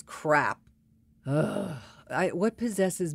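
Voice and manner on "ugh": short exasperated "ugh"; disgusted groan. Real, not acted. Woman fed up with male bragging, exasperated groan.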